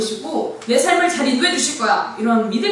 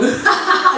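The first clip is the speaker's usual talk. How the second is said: gut laugh; 6 semitones higher, 4 dB louder, slower than usual. Retold or imitated. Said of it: "명치로부터 우러나오는 그런".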